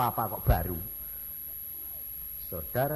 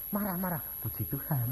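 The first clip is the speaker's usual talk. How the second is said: sample reply; 3 semitones higher, 4 dB quieter than usual. Shown as a demonstration. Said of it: "kamu harusnya bilang".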